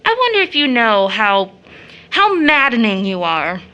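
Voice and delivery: indignant outburst at a domineering man; angry rebuke. Acted. Rachel rebukes domineering John.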